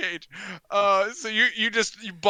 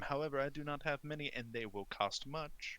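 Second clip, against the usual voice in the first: reluctant merchant; 5 semitones lower, 10 dB quieter than usual. Acted. Game master voices coat and rug merchant.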